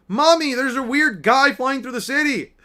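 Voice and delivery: put-on excited child. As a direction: call out to mommy like an amazed child. Child calls out to mother.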